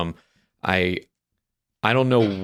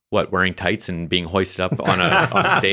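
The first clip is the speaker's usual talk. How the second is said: laughing disbelief; 4 dB louder than usual. Retold or imitated. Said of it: "I'm just like".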